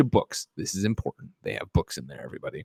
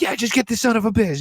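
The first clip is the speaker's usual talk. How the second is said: strained high voice; 11 semitones higher than usual. Retold or imitated. Wounded cop urging Dormer on.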